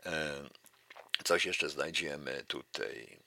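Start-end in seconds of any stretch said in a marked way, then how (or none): none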